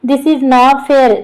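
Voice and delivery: drawn-out, slow pleading complaint; whiny protest. Acted. Arjun complaining to his sister-in-law that she's not on his side, in a slow whiny drawl. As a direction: stretch every word like a sulking kid.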